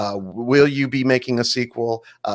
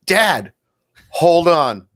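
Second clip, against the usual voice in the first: higher, urgent family call to Dad; 5 semitones higher, 4 dB louder, much slower than usual. Retold or imitated. Family stopping Dad at the TV, urgent call. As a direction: call out to stop Dad, voice raised.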